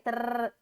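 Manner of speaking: Trrr com o r vibrando forte; faça o Trrr vibrando a língua; rolled r sound. Shown as a demonstration. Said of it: "É o R". (som de r vibrante)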